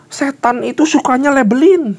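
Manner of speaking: high, loud exclamation; forceful preaching. Real, not acted. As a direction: thunder it from the pulpit.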